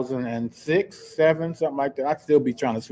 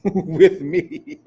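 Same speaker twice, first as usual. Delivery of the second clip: slow, laughing through the words; can't keep from laughing mid-story; 3 semitones higher than usual. Real, not acted. Host cracking up telling listeners about the June bug, laughing.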